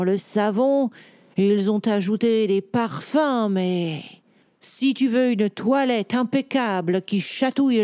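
voix de chat lente et posée; réponds en vieux chat sage; chat savant posé. Acted. Cat answers children slowly. (chat érudit, ton lent et assuré)

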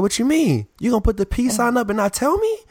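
high, whiny mock complaint; mock offended. The Sports Nation guy scolding the speaker over the peace sign, in a whiny high voice.

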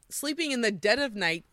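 normal talking voice

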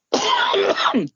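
sudden choking cough. Real, not acted. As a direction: cough after swallowing wrong. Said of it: "sorry, I swallowed wrong and I am choking".

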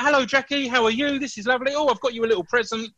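high, bright, welcoming; cheerful friendly greeting. Retold or imitated. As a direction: greet her sweetly, genuinely glad. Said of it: "was like".

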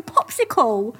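Popsicle with a short British o, pʰɔpsɪkəl; British pronunciation. Shown as a demonstration. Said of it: "You need the American accent for it to sound right".

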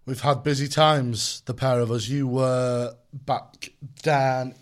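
put-on slow, drawn-out London accent. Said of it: "I don't know why I'm doing a London accent".

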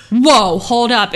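a half-playful startled halt; mock startled. Retelling her own reaction to feeling fear, mock startled.

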